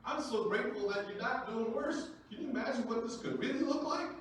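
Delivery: put-on high, loud, over-the-top delight at the kid; loud, overjoyed reverse-psychology praise; mock amazed praise. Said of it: "I'm like".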